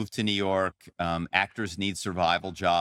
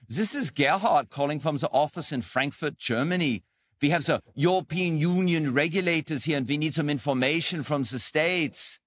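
lightly put-on German accent, a bit higher; 7 semitones higher than usual. Shown as a demonstration. Spy demoing his German accent for a ruse call to a company. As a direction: play a German caller from Frankfurt. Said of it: "do accents".

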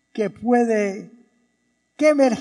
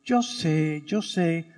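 resigned sigh; 5 semitones lower, 6 dB quieter, slower than usual. Acted. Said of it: "Marta le responde".

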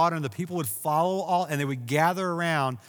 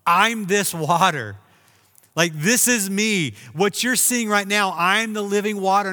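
preached shout; 3 semitones higher, 5 dB louder than usual. Retold or imitated. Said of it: "Jesus screams at the top of his lungs".

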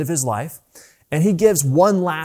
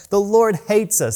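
higher mock complaint; 7 semitones higher than usual. Preacher echoes the people's complaint, higher and mocking. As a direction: repeat it higher, half-laughing in mock despair. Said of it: "That's their response".

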